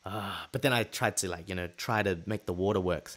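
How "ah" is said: soft exasperated "ah"; mock-exasperated exhale; annoyed sigh. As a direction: let out a frustrated breath. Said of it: "I was just annoyed 'cause it was just like".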